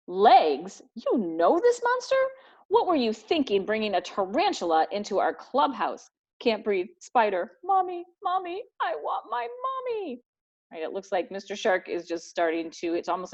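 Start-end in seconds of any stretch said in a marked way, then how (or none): 0.1-6.1 rising alarmed question; shocked outburst. Acted. Gang member shocked Wolf knows the tarantula, alarmed. 6.4-10.2 high, crying wail for mommy; mock wailing for mommy. Shark wailing for his mommy in mock terror.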